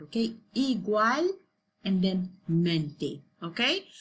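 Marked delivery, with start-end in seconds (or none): 0.5-3.2 "Igual" then "mente" as two separated chunks; split into parts. Shown as a demonstration. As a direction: break "Igual" and "mente" apart with a pause. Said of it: "it's like a two parts of the word".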